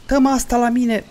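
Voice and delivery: high-pitched yell building to a full scream; angry screaming. Real, not acted. Player demanding the item be handed over, screaming angrily.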